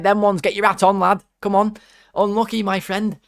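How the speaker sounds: mock the beaten keeper, pitched well up; retold taunting. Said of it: "I was like".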